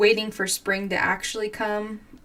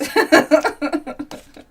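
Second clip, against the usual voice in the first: bright burst of laughter; loud laugh; 8 semitones higher, 11 dB louder than usual. Real, not acted. Laughing at her own sticky scissors to viewers.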